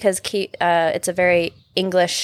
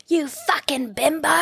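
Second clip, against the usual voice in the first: mom yelling at driver; 7 semitones higher, 3 dB quieter than usual. Retold or imitated. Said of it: "one of her favorite words".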